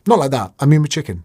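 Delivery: innuendo joke, correcting himself with a wink; cheeky innuendo; mock correction. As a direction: play it as a cheeky self-correction. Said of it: "this is what I'm saying".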